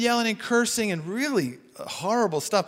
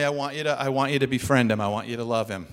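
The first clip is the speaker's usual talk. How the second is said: gentle voice of God; 8 semitones lower, 3 dB quieter, faster than usual. Retold or imitated. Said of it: "the Lord's, like, really pushing on me".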